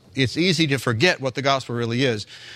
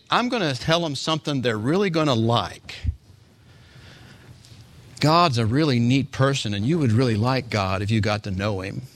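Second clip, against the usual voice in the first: mocking; 3 semitones lower than usual. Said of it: "I'm mocking, by the way, right now".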